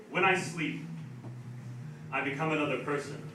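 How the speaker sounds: measured, understated poem reading; quiet-ending spoken-word delivery; poetry recital. Acted. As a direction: read each numbered stanza with pauses, letting line ends fall. Recites numbered poem on stage.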